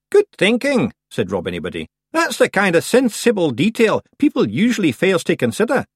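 loud, high little Scots man; cheery Feegle. A narrator's reading. Feegle chief cheering about a funeral. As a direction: cheer for a wake.

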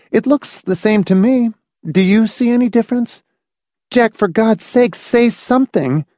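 high, anxious woman's voice, building to a plea; shaken wife. Acted. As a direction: press him for reassurance, pitched high.

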